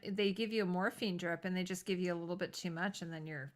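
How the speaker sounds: hushed whisper, no voice at all. Real, not acted. Telling friends about morphine drips, whispered. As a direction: let the dark part slip out in a whisper. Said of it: "drops to a whisper".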